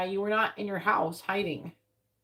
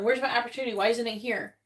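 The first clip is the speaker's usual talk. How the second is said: impatient mock complaint; 2 semitones higher than usual. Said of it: "instead of going".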